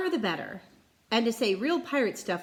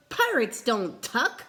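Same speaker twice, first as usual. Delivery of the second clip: firm; 3 semitones higher, slower than usual. Acted. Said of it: "he bellowed".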